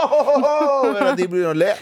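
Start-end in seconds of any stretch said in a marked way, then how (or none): 0.1-0.6 imitated laughter. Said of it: "hører jeg bare sånn".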